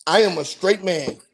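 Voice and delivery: "straight man" with exclamation marks; emphatic read-out of "straight man"; read with emphasis. Retold or imitated. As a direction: declare "I am a straight man" with weight on each word. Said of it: "Yeah, with emphasis, exclamation marks".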